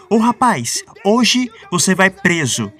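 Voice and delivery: grito ameaçador mais agudo e forte; lança a ameaça alto e devagar; ameaça gritada. Retold or imitated. Diácono ameaça o pastor na igreja. (o diácono ameaça o pastor, gritando)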